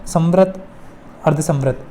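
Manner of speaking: usual speaking voice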